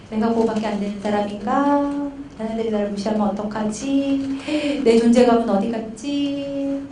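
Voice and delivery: understated insecure musing, slowing at the end; anxious inner voice. Retold or imitated. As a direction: voice a father's private worry, drawing out the endings. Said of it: "불안하고 무서우니까".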